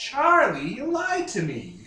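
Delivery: high, slow, swooping parrot voice. Act out Danny DeVito looking at Charlie over the smuggled beer, Danny DeVito in a parrot voice. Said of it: "Like it's the most like parrot voice possible".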